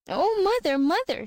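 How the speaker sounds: high wailing call of mother; crying out. A narrator's reading. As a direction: call her mother in distress. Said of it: "she cried".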